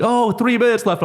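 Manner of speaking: high, called-out time warning; imitated coach call. Coach calling out time to the fighter, imitated shout. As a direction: shout it across the cage, lightly mimicked.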